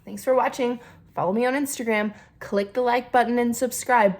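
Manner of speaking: a hint of a peppy YouTuber; lightly chirpy creator outro; YouTuber sign-off voice. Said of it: "one of those YouTubers who's like".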